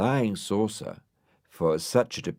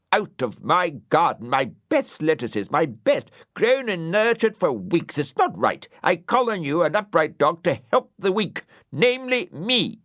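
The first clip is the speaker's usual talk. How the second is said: high, louder agitated little creature; agitated snail; 10 semitones higher, 6 dB louder than usual. Acted. Brian begs Dougal to help, high and agitated. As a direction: plead indignantly for help. Brian reports the lettuce theft.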